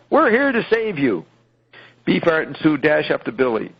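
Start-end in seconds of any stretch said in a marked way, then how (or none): 0.1-1.2 high, bright hammed-up call; mock heroic yell. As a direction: call out like a rescuer bursting in. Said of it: "Sue yells".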